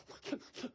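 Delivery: voiceless crying sniffles; imitated child's sobs. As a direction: mimic a child's tapering sobs. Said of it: "been crying".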